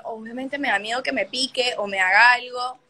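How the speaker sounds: ordinary talk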